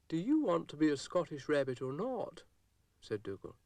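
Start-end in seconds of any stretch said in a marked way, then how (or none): 0.1-2.4 higher, louder Scottish brogue; bossy Scottish accent. A narrator's reading. Scottish dog voice.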